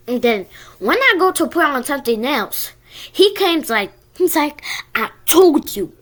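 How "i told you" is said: retold mild mock yell; a touch louder, like shouting in capitals; all caps yell. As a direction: kid replaying a bully's capital-letters warning, mild mock yell. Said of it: "like, in uppercase letters".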